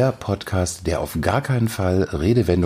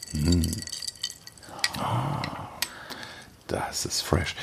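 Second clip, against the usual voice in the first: savouring after a sip; 10 dB quieter, slower than usual. Real, not acted. Host tasting the long drink, soft and whispered.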